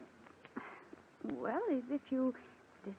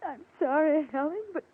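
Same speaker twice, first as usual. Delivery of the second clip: tearful, hurt protest, raised in pitch; sniveling; 4 semitones higher, 6 dB louder than usual. Acted. Rose apologizes to her sharp sister, sniveling. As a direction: protest as if close to tears. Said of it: "stop sniveling like that".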